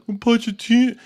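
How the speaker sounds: high, swooning Pochettino; mock longing fan. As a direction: sigh the name like a lovesick fan. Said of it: "the Tottenham fans being like".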